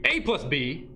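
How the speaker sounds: A plus B said as one punched unit; grouped by emphasis. Shown as a demonstration. Math teacher showing order with emphasis, grouped stress. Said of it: "That little emphasis there on syllables".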